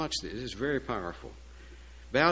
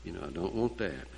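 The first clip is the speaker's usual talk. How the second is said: low, softer aside of dread; inner thought; 6 semitones lower, 6 dB quieter than usual. Acted. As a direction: think it to yourself, low and quiet. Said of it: "he's thinking".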